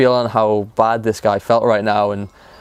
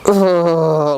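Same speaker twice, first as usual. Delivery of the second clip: long, higher-pitched imitated groan; anxious groan; 5 semitones higher than usual. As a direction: draw out an uneasy groan, mimicking a nervous man. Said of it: "'cause his anxiety comes back".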